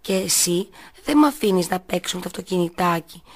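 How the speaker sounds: ordinary delivery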